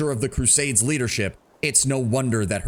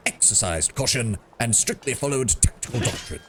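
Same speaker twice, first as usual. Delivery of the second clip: pompous British voice. Acted. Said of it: "a pompous British, uh, British voice".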